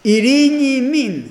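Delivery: slow, loud call of peace. Retold or imitated. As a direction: proclaim it slowly and loudly to the room. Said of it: "φώναζε".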